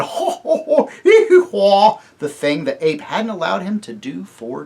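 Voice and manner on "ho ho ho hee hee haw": high, loud hee-haw bray; donkey bray laugh. Acted. Puzzle brays with delight, high and loud. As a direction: bray with joy. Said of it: "gave a grin".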